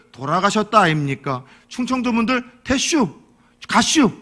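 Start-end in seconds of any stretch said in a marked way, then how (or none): 2.6-4.1 short clipped Chungcheong endings; 충청도 사투리로 짧게; Chungcheong dialect. Retold or imitated. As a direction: toss off the words Chungcheong-style. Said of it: "짧아요".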